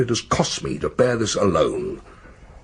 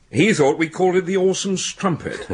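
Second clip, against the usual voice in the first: chuckling through the punchline; laughing; 6 semitones higher than usual. Real, not acted. Colleague recalls the dead man's mishearing, laughing. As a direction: let a laugh break into the last words.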